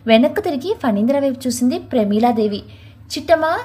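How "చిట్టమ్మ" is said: a mild mock shout to the maid; called out loudly. Mistress calling the maid to bring the water, a light shout. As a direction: call across the house, a touch raised. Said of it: "గట్టిగా అరిచి చెప్పి".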